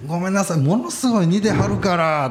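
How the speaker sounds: high-pitched, effusive mock apology; imitated apologetic old woman. Old woman excuses her mistake over his likeness, imitated high apology.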